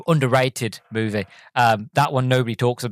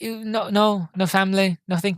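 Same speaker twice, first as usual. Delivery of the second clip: higher, lightly acted probing; probing question; 7 semitones higher than usual. Driver checking passenger has no family, lightly acted probing. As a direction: mimic a man fishing with questions. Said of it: "he's like".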